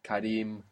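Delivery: Kareem softly, weight on REEM; stress on second syllable. Shown as a demonstration. Teacher asking if the accent moved, soft stress on REEM in Kareem. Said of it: "Did you move the accent?".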